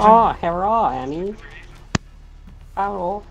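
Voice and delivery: high, loud mock Asian accent; hammed-up Asian accent greeting. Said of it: "I can do Asian voice".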